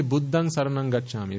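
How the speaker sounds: "Buddhang" chanted phrase said evenly; careful Pali pronunciation. Shown as a demonstration. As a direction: recite "Buddhang saranang gacchami" as a model line. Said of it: "remember, it's not Buddhang".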